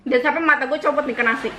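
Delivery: a hammed-up scolding mother; imitating angry mother. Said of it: "Gitu, mamaku kalau marah".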